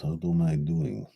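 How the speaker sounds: a light mock Russian accent. Showing off his best Russian accent to viewers. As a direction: try out a playful Russian accent. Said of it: "This is my best Russian accent".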